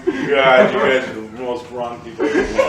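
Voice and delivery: fast, laughing mock scolding; laughing mock outrage. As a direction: scold them through laughter.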